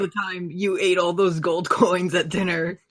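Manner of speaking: jovial reminiscing hero voice; hearty strongman voice. Acted. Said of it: "booming voice".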